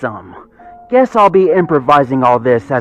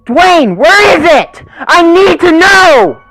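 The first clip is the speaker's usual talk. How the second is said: much higher, louder, crying panic; voice breaking; 10 dB louder, slower than usual. Acted. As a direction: beg for help, on the edge of tears. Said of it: "Her voice was breaking".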